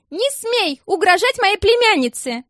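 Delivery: high, loud furious yell; yelled across the bus. A narrator's reading. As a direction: scream it across the whole bus. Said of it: "завопила Алсана через весь автобус". (вопль через весь автобус)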